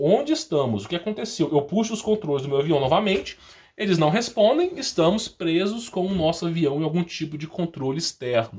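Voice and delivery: ordinary talk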